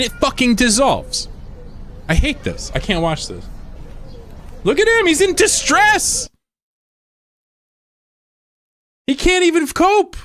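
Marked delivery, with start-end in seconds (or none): 4.6-10.2 pitying squeak. Real, not acted. Streamer describing the sad raccoon video, pitying squeak. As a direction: coo over the poor raccoon in distress.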